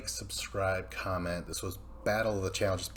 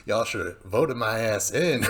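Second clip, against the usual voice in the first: taunting; 6 dB louder than usual. Retold or imitated. Contestant taunting rival.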